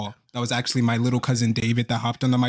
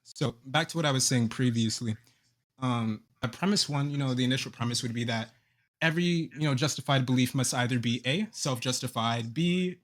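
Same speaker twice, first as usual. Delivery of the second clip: reading out a syllogism. Real, not acted. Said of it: "all you did was read out a syllogism".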